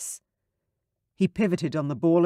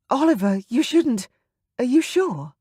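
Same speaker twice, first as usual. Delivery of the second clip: put-on higher, breathless young woman; Sarah's voice; 9 semitones higher, 4 dB louder than usual. A narrator's reading. Sarah to Oliver, a flustered young lady.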